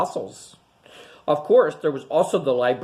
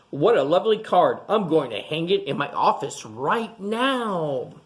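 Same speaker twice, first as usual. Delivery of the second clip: pleased praise. Acted. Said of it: "said Doctor Lee".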